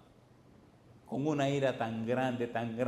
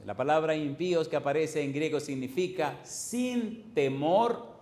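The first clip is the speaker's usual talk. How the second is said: slow teaching; 2 semitones higher than usual. Shown as a demonstration. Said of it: "¿Sin qué cosa?".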